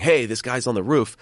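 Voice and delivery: half-hearted yell of warning; retold yell. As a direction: imitate a bystander yelling at police, held back. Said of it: "he's yelling at police officers saying".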